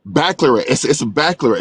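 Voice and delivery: BACCALAUREATE squeezed shorter, like "backlerate"; "baccalaureate" slurred into "backlerate" by accent; accented pronunciation. Real, not acted. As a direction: say "baccalaureate" with the middle syllables swallowed. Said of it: "It's my accent".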